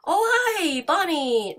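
high, loud startled hi; startled hello. Real, not acted. Startled player spotting Bonnie at the door. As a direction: yelp a greeting at the scare.

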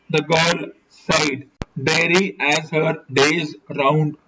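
measured audiobook reading; story narration. A narrator's reading. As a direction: read the novel aloud in deliberate, separated phrases. Reads a detective novel aloud.

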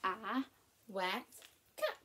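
words spaced out, pitched a little low; unhurried low chant, word by word; low, slow start. Shown as a demonstration. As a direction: start low with a pause after each word. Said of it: "You're gonna start low".

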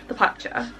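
slightly British-sounding slip; British accent. Real, not acted. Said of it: "Don't know why I suddenly had a British accent".

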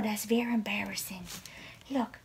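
soft, half-whispered reproach; hushed pet scolding. Real, not acted. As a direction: quietly plead with squabbling cats. Hushed scolding of fighting cats.

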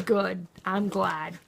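slow, deadpan "good, I'm glad"; unexcited. Retold or imitated. Worn out by the ordeal, she mocks her own excitement, slow and deadpan. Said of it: "I'm not even excited anymore".

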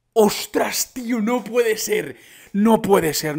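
astonished, insistent outburst; stunned disbelief. Real, not acted. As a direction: exclaim as if you can't believe it. Disbelief at game update.

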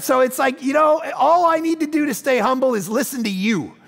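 ordinary talk, nothing marked

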